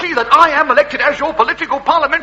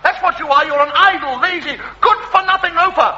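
higher, pompous tirade with a laugh in it; mock outrage; 5 semitones higher than usual. Candidate losing his temper at the voter, pompous tirade. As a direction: blow up at the lazy loafer.

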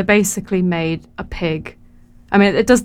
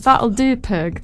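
attempted Scottish accent; 3 semitones higher, much slower than usual. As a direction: have a go at a Scottish accent, punchy opening. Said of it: "I can do it in a".

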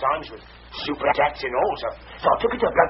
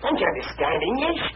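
exasperated; 8 semitones higher, slower than usual. Acted. Cockney van driver losing patience explaining slang, exasperated shout. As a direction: spell it out to someone who just won't get it.

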